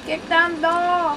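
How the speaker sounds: high, slow mock command; mock heroic voice. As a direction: boom it out like a hero.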